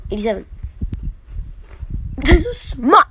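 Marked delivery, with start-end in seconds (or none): 2.2-3.0 surprised. Real, not acted. Reaction to pull.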